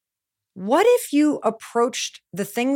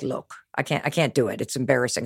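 softer, lower, embarrassed mumble; sheepish mock Marcus; 10 semitones lower, 5 dB quieter, faster than usual. Friend Marcus refusing in the meeting, softer and sheepish. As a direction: imitate a friend admitting he's too embarrassed. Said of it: "he was literally like".

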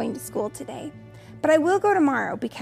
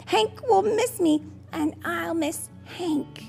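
put-on slow, higher tearful child voice; crying; 6 semitones higher, slower than usual. A narrator's reading. Child cries about leaving Hank behind, wailing. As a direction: plead tearfully, drawing words out, pitched up. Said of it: "I cried".

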